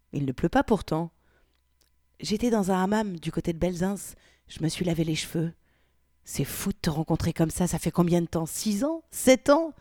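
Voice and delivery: novel read aloud, voicing the two women; reading a racy chapter to viewers; story narration. (lecture d'un roman à voix haute)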